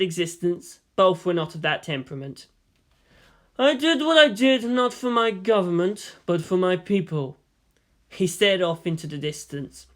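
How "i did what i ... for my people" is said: put-on higher, earnest old statesman. Yang's earnest declaration.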